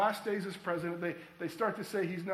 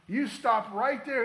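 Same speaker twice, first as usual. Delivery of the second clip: slow, loud and deliberate; preacher halting doubt with a slow loud command; firm command; 3 semitones higher, 6 dB louder than usual. Real, not acted. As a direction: stop them in their tracks, slow and loud. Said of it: "preacher commanding the congregation".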